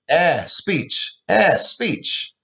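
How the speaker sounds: lisping through gums, no teeth; toothless lisp. Acted. Father lisping without teeth at his daughter. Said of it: "he lisped when he said".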